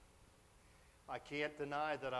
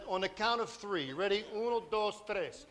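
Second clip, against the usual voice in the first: higher, louder mock bee countdown; hammed-up bee countdown, raised voice; bees counting down; 6 semitones higher, 6 dB louder than usual. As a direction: count down like a gang of bees about to strike. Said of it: "So they said".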